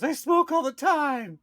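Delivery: high, drawn-out mock wail; imitating near tears. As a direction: wail it like a weepy girlfriend. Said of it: "like, almost in tears".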